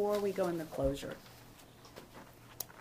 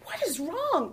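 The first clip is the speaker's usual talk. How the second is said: higher, louder pointed question; tough, pitched-up demand; firm confrontation; 9 semitones higher, 7 dB louder, much slower than usual. Retold or imitated. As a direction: challenge the man sharply, voice raised. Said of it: "I got a little like".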